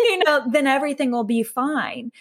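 tongue-in-cheek, lifted and amused; sarcastic. Acted. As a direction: laugh through a sarcastic promise. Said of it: "I'm being sarcastic".

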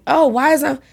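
high, startled at her own tears; mock shocked. Retelling her surprise at crying in class, high and startled. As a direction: replay the moment you realise you're crying.

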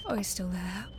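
soft dismayed whisper. Acted. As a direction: breathe it out quietly. Whispered, watching the bird.

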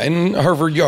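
Boston accent slipping out. Real, not acted. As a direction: drop the r's, Boston style. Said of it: "there's my Boston accent coming out".

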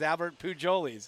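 Pujols announced as "poo-JOE-leez"; butchered name. Retold or imitated. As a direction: mangle Pujols with a J sound for the H. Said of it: "whose name he butchered".

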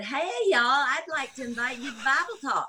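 lightly put-on Southern accent. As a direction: greet them like a Kentucky girl, all Southern. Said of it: "losing my Southern accent".

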